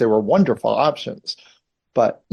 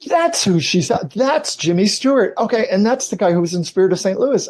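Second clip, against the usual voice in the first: excited realisation; 8 semitones higher than usual. Retold or imitated. Retelling her childhood moment of realisation.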